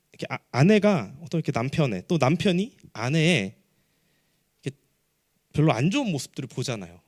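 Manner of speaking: ordinary talk, nothing marked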